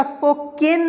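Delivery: स्पोकन mispronounced as "spo-ken"; wrong pronunciation. Shown as a demonstration. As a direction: clear "eh" in the end of स्पोकन. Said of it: "स्पोकन नहीं बोलेंगे".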